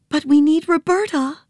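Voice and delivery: put-on high girl's voice, tearful; small girl weeping with joy at her elephant; Nancy weeping. Little girl tearfully greeting her elephant, high voice.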